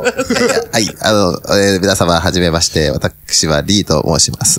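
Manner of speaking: nose held shut while talking; pinched nose voice. Pretend. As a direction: talk with fingers pinching the nose. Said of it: "鼻をつまんだ声じゃないですか".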